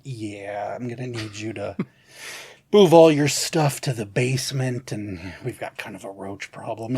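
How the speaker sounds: droning boss. Retold or imitated. The boss telling Milton to move, in a low lazy drone. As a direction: stretch it out like a lazy manager. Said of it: "the boss would come down".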